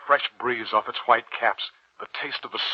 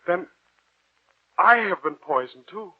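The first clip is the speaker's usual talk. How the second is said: horrified realisation; 9 semitones higher, 7 dB louder than usual. Acted. Realising he is poisoned.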